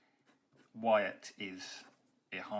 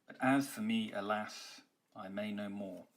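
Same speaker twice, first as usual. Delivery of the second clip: heavy, dejected slowness; slow. Shown as a demonstration. Teacher reading the dejected line aloud, slow and heavy. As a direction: let the M's drag you down. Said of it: "that line is slow".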